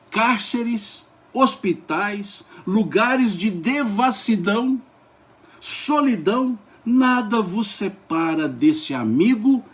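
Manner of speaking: slow, high declamation with stretched words; carried away by the beauty of the text; leitura eufórica. Real, not acted. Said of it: "elevando um pouco o, o, a voz". (declamação lenta, em tom elevado e eufórico)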